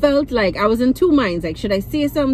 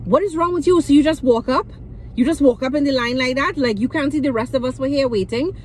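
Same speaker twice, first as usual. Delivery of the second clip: retold angry shout; 5 semitones higher than usual. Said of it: "decides to start to shout at my father".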